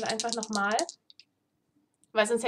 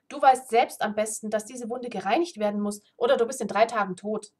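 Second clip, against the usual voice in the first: rebuking; 4 dB louder than usual. Acted. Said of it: "wies er sie zurecht".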